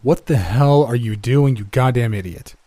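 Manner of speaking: angry yell at the employee. Acted. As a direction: bellow it with outrage.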